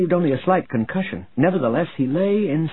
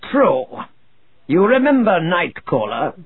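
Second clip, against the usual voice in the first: booming commanding warlord; 6 semitones higher, 4 dB louder than usual. A narrator's reading. Warlord Zinj replies.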